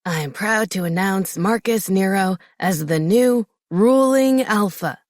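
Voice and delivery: slow, proud ceremonial announcement; formal announcement. Acted. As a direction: proclaim it to the whole hall. Father announces new alpha to pack.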